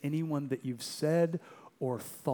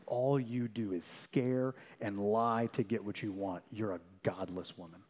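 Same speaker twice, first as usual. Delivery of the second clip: gentle response; 3 semitones lower, 4 dB quieter than usual. Retold or imitated. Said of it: "this is the gentle response".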